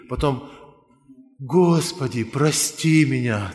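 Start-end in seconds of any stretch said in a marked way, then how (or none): 1.4-3.5 retold anguished cry. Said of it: "такой крик раздирающий".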